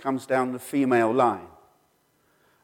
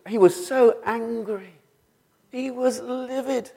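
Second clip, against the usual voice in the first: remembering dad's anger; 11 semitones higher, slower than usual. Real, not acted. Telling of angry father.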